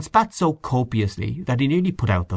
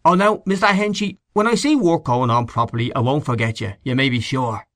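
lightly mimicked fobbing-off promise; starts high, settles into mock assurance; mocking imitation; 4 semitones higher than usual. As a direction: imitate his excuses with a touch of scorn. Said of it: "I asked the little shoe boy, but he said".

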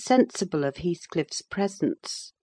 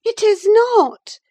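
higher, slow, sharp contradiction; retort; 8 dB louder, slower than usual. Acted. Catherine contradicting Nelly, sharp retort. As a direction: snap back at her. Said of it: "retorted she".

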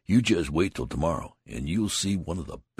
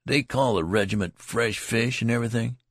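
animated; 6 semitones higher, 4 dB louder than usual. A narrator's reading. Tall soldier expounding.

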